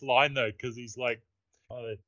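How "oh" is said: higher, slow mock scream, hammed up; retold scream. Retelling Keanu's line to friends, a slow hammed-up mock scream. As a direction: belt it out like a movie hero losing it. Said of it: "screaming it at the top of his lungs".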